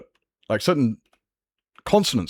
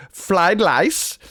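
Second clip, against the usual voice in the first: imitating a mocking Japanese accent, pitched high; caricatured Japanese accent, high-pitched; 8 semitones higher than usual. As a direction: swap R and L in a mock Japanese accent. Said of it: "It's like making fun of".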